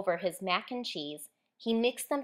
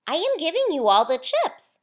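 cheerful, higher, louder offer; smiling; 7 semitones higher, 8 dB louder than usual. A narrator's reading. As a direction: beam as you give the gift. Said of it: "Walter smiled".

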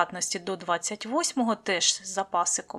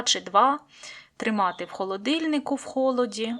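ordinary talk, nothing marked

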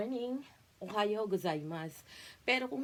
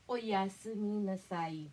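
sweeter goodnight; slower than usual. Shown as a demonstration. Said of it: "Para mas malambing".

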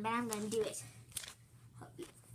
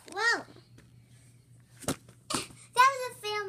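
surprised exclaim; 9 semitones higher, 10 dB louder than usual. Real, not acted. Child falls during cartwheel.

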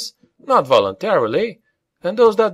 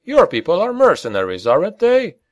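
higher-pitched, mildly smug challenge; pitched-up, faintly smug young-gun retort; trace of smugness; 8 semitones higher than usual. A narrator's reading. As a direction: needle him with a touch of smugness. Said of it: "with just a trace of smugness".

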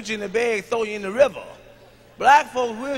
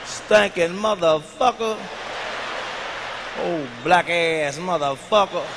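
black man cussing demo; 5 semitones lower, 3 dB quieter, slower than usual. Shown as a demonstration. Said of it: "motherfucker is our word".

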